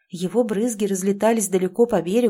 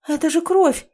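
higher, louder shocked cry; frightened exclamation; 8 semitones higher, 5 dB louder than usual. A narrator's reading. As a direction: cry out at the sight of blood. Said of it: "воскликнула девушка".

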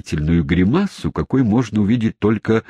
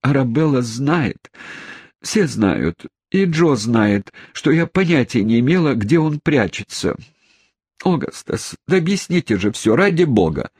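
much higher, breathless rush of protest; agitated exclamation; 6 semitones higher than usual. A narrator's reading. Emily protests her innocence to her father, agitated. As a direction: blurt it out fast, near tears of agitation. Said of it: "воскликнула Эмили".

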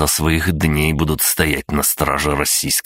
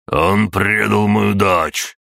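furious outburst; 5 semitones higher, much slower than usual. Acted. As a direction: flare up in rage. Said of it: "вскинулся король Едозубов".

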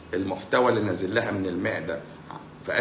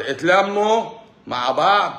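slow rallying shout; 6 semitones higher, 5 dB louder, slower than usual. Acted. Urging pharmacists to unite.

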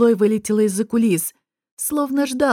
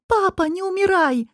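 high, tearful wail; sobbing cry; 9 semitones higher than usual. A narrator's reading. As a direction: beg her father not to die. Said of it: "рыдающая Летис с криком".

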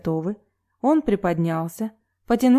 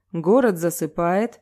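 mysterious voice. Acted. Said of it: "загадочным голосом информировал ведущий".

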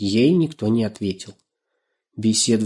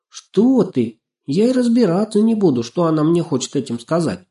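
put-on much higher, louder alarmed girl; frightened; 8 semitones higher, 5 dB louder than usual. A narrator's reading. Girl refusing to listen to mice, frightened. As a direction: recoil from the very idea. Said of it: "испугалась Настенька".

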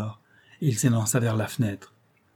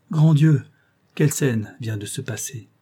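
a sudden louder cry of dismay; shocked exclamation; 4 dB louder than usual. Acted. Walton writing to his sister, cries out in shock. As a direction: blurt it out, still shaken by what he saw.

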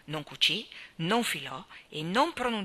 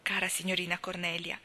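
a touch of wistful tenderness; a bit sad and sentimental. Acted. Anna telling Cornelia she'll miss her, mildly wistful. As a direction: let a little sadness creep into the goodbye. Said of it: "sentirsi un po' triste e sentimentale".

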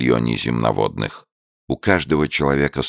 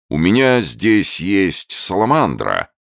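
hesitant; 6 semitones higher than usual. A narrator's reading. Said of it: "нерешительно начал он".

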